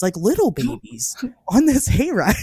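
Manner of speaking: breathy stage whisper about the babies; whispered aside. Real, not acted. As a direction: lean in and whisper it like a secret.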